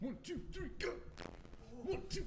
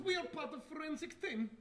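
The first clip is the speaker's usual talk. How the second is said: put-on broken English in a Russian accent; mild Russian accent. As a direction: announce the team like a Russian detective. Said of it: "do this accent".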